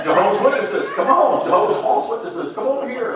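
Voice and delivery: laughing, rising high and loud; laughing jab. Real, not acted. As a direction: call them over through a laugh. Gleeful jab at visiting witnesses.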